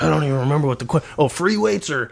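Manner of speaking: imitating a flustered ranter, rushed. Host mimics the clip's ranter losing the question, flustered. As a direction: stumble over the words, mock flustered. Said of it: "he just gets all flustered".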